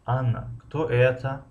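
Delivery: slow, with это drawn out at the end; weight on the closing это; stress on the ending. Shown as a demonstration. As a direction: keep Анна light and stretch это. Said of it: "охири ҷумларо".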